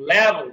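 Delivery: "লেভেল" with a v that is no hard bh; pronunciation demo. Shown as a demonstration. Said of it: "উচ্চারণ কি".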